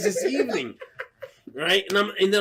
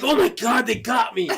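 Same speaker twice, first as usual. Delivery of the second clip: higher-pitched alarmed exclamation; mock panic; 5 semitones higher than usual. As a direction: reenact realizing you've been scammed. Acted panic while pacing.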